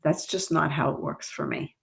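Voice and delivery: calm reply. Shown as a demonstration. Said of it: "and you say".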